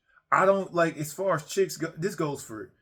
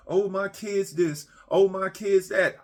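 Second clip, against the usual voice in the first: mock whiny parent; 5 semitones higher than usual.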